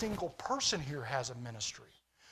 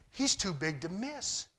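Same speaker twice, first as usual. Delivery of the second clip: calm confidence. Retold or imitated. David, filled with the Spirit, sizing up the giant, calm confidence. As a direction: say it like the answer is obvious.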